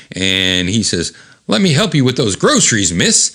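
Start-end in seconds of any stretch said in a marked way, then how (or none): 1.5-3.3 higher-pitched polite villain act; comic villain playing the gentleman; feigned helpfulness. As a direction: offer help with mock courtesy. Villain feigns help to Diane.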